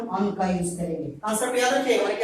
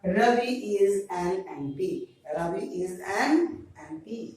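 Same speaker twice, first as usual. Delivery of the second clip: slow model reading; 4 semitones lower, 7 dB quieter, much slower than usual. Shown as a demonstration. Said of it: "teacher reads answer slowly".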